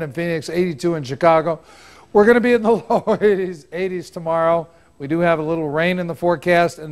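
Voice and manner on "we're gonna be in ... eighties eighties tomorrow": fast, giggling through numbers; laughing mid-sentence. Real, not acted. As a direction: rush through it while laughing. Laughter breaks into forecast.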